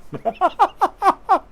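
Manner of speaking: high, loud burst of laughter; amused laugh. Real, not acted. Streamer laughing at a viewer's joke, amused. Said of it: "that shit's funny right there".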